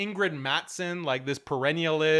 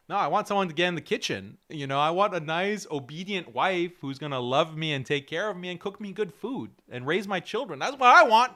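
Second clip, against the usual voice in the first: inner voice. Retold or imitated. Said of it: "That's what this brother Ansari is thinking".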